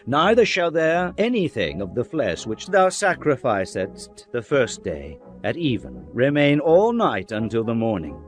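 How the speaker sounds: ordinary delivery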